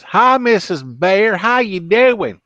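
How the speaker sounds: slow, high, wide-mouthed frog greeting. Acted. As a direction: stretch every word like a big-mouthed frog. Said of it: "goes up to the bears and says".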